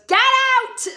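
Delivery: loud, high outraged yell; hammed-up shouted order; Anthony. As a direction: throw someone out in mock fury. Acting Anthony throwing out his date.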